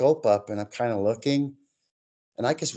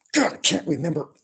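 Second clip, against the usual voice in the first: higher-pitched mock exasperation; frustrated; 5 semitones higher than usual. Retelling the drummer who forgot his beat, frustrated. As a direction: imitate a man mildly losing his temper. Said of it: "It's getting mad".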